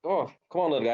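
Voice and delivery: sweet-talking a stray puppy lightly; coaxing a puppy. Retold or imitated. Talking to a puppy on a run, lightly coaxing. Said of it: "and I'm like".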